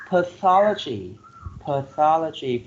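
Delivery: pathology with a strong THO; stress second syllable. Shown as a demonstration. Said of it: "put a stress on the second syllable".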